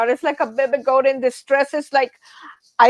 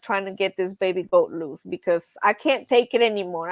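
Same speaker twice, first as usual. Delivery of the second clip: usual speaking voice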